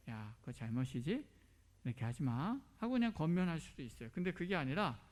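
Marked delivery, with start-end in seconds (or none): 0.1-2.6 put-on a touch of gentle scolding to a child; lightly voiced kind parent, understated; gently. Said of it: "제가 그냥 부드럽게".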